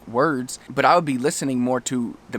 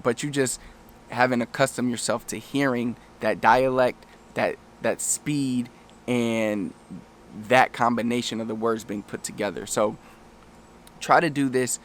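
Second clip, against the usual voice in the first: ordinary talk, nothing marked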